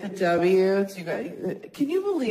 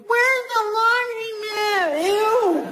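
bad sultry attempt; 12 semitones higher than usual. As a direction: try the sexy voice and fail badly. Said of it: "if I tried to do that".

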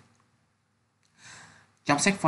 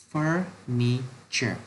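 slow model reading; much slower than usual. Shown as a demonstration. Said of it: "Nào các em cùng đọc nhé".

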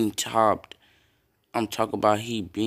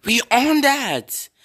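higher, slow hyped call; 12 semitones higher, 5 dB louder, slower than usual. Real, not acted. Gamer bragging to viewers after a stop, slow hyped call. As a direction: draw it out, pumped up.

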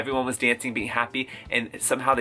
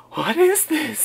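mock amazement; 10 semitones higher, slower than usual. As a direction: act dazzled. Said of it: "she needed to be like".

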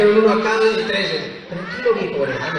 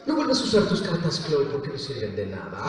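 Yue; 5 semitones lower, 4 dB quieter than usual. Shown as a demonstration. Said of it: "voy a decir algo de las cartas".

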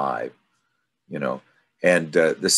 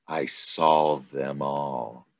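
very slow, heavy snake's answer; ominous; much slower than usual. Acted. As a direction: let each word hang like a threat. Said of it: "here's the ominous statement".

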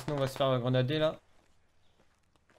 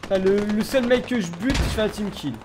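frustrated; 5 semitones higher, 4 dB louder than usual. Real, not acted. Frustrated at own team kill.

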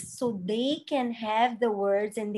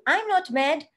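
put-on child correcting; 5 semitones higher, 4 dB louder than usual. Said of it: "Or a child may correct you".

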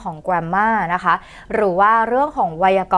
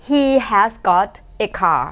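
He has got a car drawn out very slowly; very slow repeat; much slower than usual. Shown as a demonstration. Teacher slowly repeating the British example. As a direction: stretch every word of He has got a car. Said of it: "เขาจะพูดว่า he has got".

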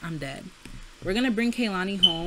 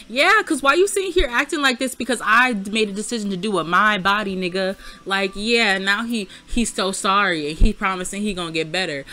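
raised, worked-up voice; loud venting; 7 dB louder than usual. Real, not acted. Mocking the boyfriend Sim's switch-up, loud and indignant. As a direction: call him out, loud and fed up.

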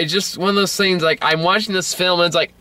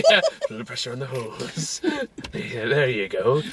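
laughing mock quote; 2 semitones lower, 7 dB quieter than usual. Mock David line, laughing.

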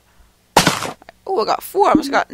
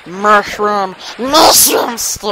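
loud, slowed cartoon-dad shout, lightly voiced; hammed-up, louder cartoon dad bark; Peter Griffin; 5 dB louder, slower than usual. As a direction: bellow it like a goofy cartoon dad, a mild take. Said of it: "I'm trying to talk like Peter Griffin".

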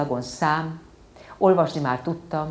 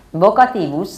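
higher, louder echo of the word „Vocativus”; obedient repeat; 5 semitones higher, 8 dB louder than usual. Acted. Child obediently repeating the word to her father. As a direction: parrot „Vocativus” back dutifully. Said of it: "mondtam engedelmesen".

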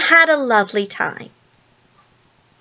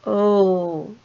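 soft drawn-out moan of pity; 4 dB quieter than usual. A narrator's reading. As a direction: moan along, sinking slightly. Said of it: "they moaned".

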